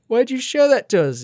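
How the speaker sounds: high, loud outraged demand; hammed-up indignant yell; outraged audience. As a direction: shriek the question at him. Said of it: "He's like".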